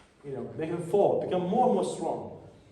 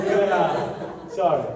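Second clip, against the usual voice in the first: laughing apology; 7 dB louder, much slower than usual. Real, not acted. Laughing after botching the name.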